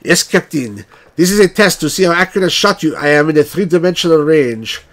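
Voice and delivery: a hint of a Russian officer's accent; lightly put-on Russian accent, reading the part; bad Russian accent. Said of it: "I can't do a good Russian accent".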